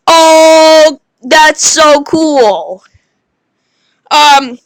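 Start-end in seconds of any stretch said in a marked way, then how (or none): 0.1-2.8 drawn-out, amazed "Oh, that's so cool"; excited oh. Shown as a demonstration. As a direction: sound impressed and slow. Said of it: "as in like".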